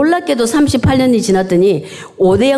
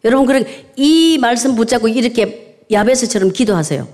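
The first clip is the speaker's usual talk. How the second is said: usual speaking voice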